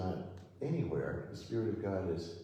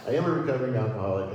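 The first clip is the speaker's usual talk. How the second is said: loud, fast, through real laughter; laughing confession; 7 dB louder, much faster than usual. Real, not acted. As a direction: blurt it out while cracking up. Confessing while cracking up.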